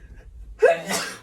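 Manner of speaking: voiceless sneeze; acted sneeze. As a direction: sneeze into the hand. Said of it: "a little bit of a sneezing fit".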